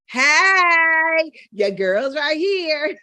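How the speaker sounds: loud, high "hey" breaking into laughter; playful self-promotion. Pretend. Coach offering herself as teacher, playful call-out. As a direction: call out brightly and laugh at yourself.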